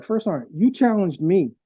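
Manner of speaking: measured protest in a retelling; retold pointed comeback. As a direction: throw the blame back, lightly acted. Retold comeback to first sergeant.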